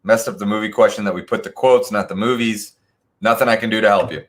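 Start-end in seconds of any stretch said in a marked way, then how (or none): 3.2-4.2 mock dismissive. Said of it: "I'm just kidding".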